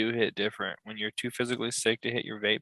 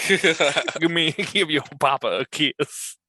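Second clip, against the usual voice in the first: laughing coax; 4 semitones higher, much slower than usual. Retold or imitated. Asking child for a kiss.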